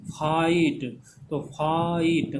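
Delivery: फाइट drawn out as "faa-eet"; फाइट with long "aa" gliding into "ee"; two vowels sounded. Shown as a demonstration. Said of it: "दो vowel sound आ रहा है".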